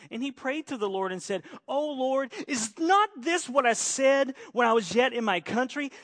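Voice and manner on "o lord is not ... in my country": loud, complaining plea to God; angry prayer. Acted. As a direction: voice Jonah's bitter protest, raised. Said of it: "and he was angry".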